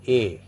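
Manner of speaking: A as the French é sound; E with accent aigu. Shown as a demonstration. Teacher showing what the accent does to E, accented vowel A. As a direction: say A, like the English letter A. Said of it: "When the l'accent aigu is used on E".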